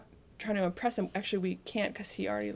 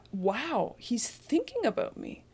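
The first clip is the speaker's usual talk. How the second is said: awed realisation; 3 semitones higher, slower than usual. Acted. Acting out awed reaction to being heard.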